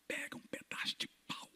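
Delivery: unvoiced whispered order. Preacher to deacon, whispering. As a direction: hush it to the deacon.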